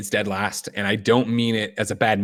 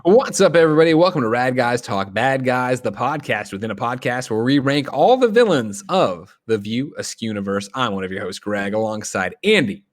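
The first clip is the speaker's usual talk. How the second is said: podcast host intro; 2 semitones higher than usual. Acted. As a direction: kick off the show like an announcer.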